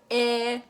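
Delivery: Eliza in three long separate beats; exaggerated syllables. Shown as a demonstration. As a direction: open wide on each part of Eliza. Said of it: "do it with anybody's name".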